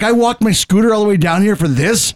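aggrieved rant, starting high and dropping; exaggerated indignation; mock outraged complaint. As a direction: act out a disappointed tourist griping. Acted complaint of disappointed spectator.

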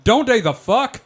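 high, loud bewildered cry; a confused villager yelling at the sky; baffled local. Retold or imitated. Poor villager shouting in confusion at the aliens. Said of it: "some poor bastard going".

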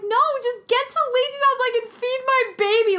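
emotional. Retold or imitated. Crying mom quoting herself.

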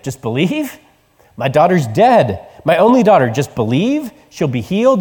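a father scoffing at hollow comfort; incredulous scorn. Retold or imitated.

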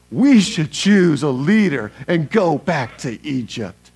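slow, lightly whining complaint; whiny voice. Acted. Israelites saying to each other, a mildly whiny voice. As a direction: draw it out with a touch of whine. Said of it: "whiny voice, these next two verses".

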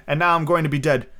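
ordinary delivery, nothing marked

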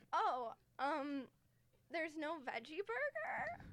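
slow, soft, on the verge of tears; half-crying, almost pleading with the waiter; teary plea. Retold or imitated. Friend retelling how she asked the waiter for a veggie burger, teary and slow. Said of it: "with eyes filled with water".

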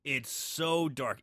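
强调so; stress on so. Shown as a demonstration.

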